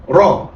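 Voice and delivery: را said with a full, thick emphatic R; teacher showing a heavy R. Shown as a demonstration. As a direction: give the R in را a heavy, thick sound. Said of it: "شفت الراء هنا تخنت ازاي".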